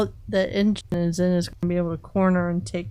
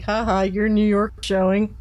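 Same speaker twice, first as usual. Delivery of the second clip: teasing giggle. Retold or imitated. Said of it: "It's like".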